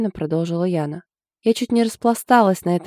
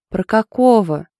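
puzzled; 4 semitones higher, 6 dB louder, slower than usual. A narrator's reading. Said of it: "непонимающе уточнила язва".

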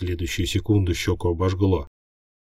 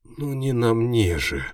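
higher, slow alarmed cry; exclaiming; 6 semitones higher, slower than usual. A narrator's reading. Hero startled as symbols burn on him, alarmed cry. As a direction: protest in alarm. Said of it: "воскликнул я".

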